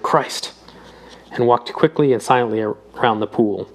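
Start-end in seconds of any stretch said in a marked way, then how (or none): 0.0-0.5 breathy, voiceless oath; whispered. A narrator's reading. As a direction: breathe the word out in shock.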